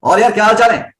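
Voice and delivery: easy, loud greeting thrown outward; loud, low effort. Shown as a demonstration. Teacher contrasting takes, loud relaxed greeting. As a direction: call out loud but relaxed. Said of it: "volume high है और pitch लो है".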